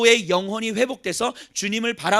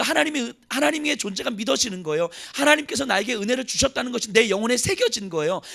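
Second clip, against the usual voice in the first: ordinary talk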